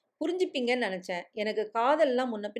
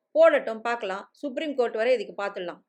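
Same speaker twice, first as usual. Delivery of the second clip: defiant shout; 4 dB louder than usual. Acted. Uncle dares the angry father to sue, loud defiant shout. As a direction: throw the challenge back hard. Uncle defies threat of court case.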